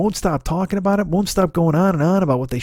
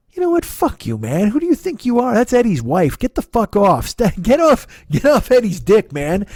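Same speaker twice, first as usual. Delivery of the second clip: raised, heated telling-off, pitch jumping up; mock angry rant; 5 semitones higher than usual. Podcaster yelling at Valerie's new husband, heated mock rant. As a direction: tell the guy off like he's right there.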